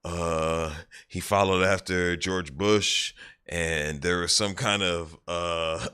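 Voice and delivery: slow, halting recall with filler sounds; thinking hard. Retold or imitated. Suspect scrambling for facts about Obama, slow and hesitant. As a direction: grope for each fact, dragging the words. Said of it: "he starts thinking for a second".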